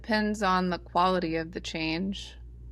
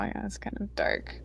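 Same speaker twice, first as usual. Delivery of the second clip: laughing while talking; 7 dB quieter, faster than usual. Real, not acted. Laughing through self-mocking remark.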